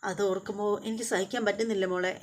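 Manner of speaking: mother tells her daughter of a friend's tumour, mildly tearful; mild retold crying. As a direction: voice drops as if holding back tears, understated. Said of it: "എന്നിങ്ങനെ പറഞ്ഞിട്ട് കരയുകയാണ്".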